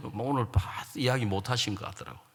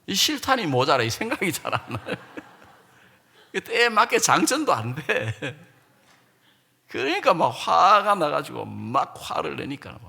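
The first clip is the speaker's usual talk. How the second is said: ordinary delivery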